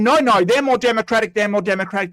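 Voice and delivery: fast, whiny parody of the viewer; sneering imitation of the chatter; mocking quote. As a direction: rattle it off like a stubborn child. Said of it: "You're basically going".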